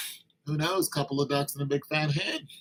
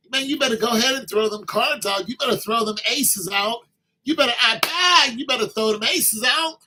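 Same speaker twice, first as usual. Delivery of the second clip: higher, louder pep talk; hyped-up urging; 5 semitones higher, 3 dB louder than usual. Real, not acted. Guy urging a single friend to make his move, hyped. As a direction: pump your buddy up. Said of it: "urging friend, hyped".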